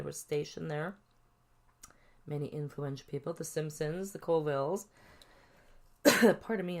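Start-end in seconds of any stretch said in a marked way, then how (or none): 6.0-6.8 coughing, clearing throat; choking on a drink. Real, not acted. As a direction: cough then pardon me. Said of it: "I'm choking".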